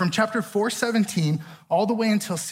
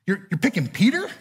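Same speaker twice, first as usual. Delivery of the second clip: a touch of puzzled doubt; mild disbelief. Retold or imitated. First-time reader doubting Jesus, mild disbelief. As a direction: ask it half unsure, half amazed.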